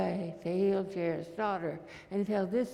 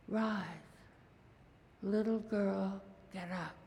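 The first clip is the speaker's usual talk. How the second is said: tender command; 5 dB quieter than usual. Acted. Jesus raises Jairus's daughter.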